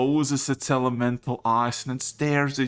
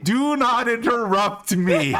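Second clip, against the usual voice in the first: angry; 9 semitones higher, 5 dB louder than usual. Acted. Elemental scolds the players.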